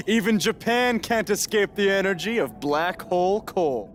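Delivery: Cole's slow, hammed-up wrestler brag to Baron; wrestling persona voice. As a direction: sell your wrestler character like a promo. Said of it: "they explicitly said to not do that character".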